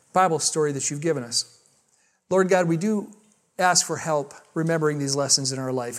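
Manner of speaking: measured congregational prayer; earnest prayer with pauses between petitions; closing prayer. Real, not acted. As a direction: lead the room in prayer, phrase by phrase. Leads closing prayer and blessing.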